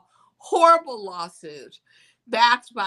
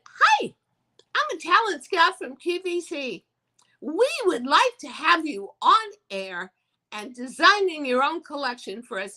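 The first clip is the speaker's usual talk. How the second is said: much higher, bubbly sales-pitch voice; perky talent scout; 7 semitones higher than usual. Retold or imitated. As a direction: sell it like a cheery scout on the phone.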